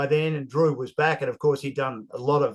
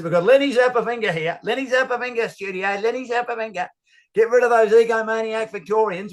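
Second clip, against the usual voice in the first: higher, louder blustering cartoon-rooster bark; the speaker as Foghorn Leghorn; 7 semitones higher, 3 dB louder than usual. Indignant commentator grumbling down the line, high blustering rooster voice. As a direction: puff up and boom it like a pompous cartoon rooster. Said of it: "George has got a voice like Foghorn Leghorn".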